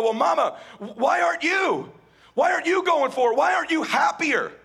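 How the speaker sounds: imitating a child. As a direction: voice the kid turning the question back on Mama.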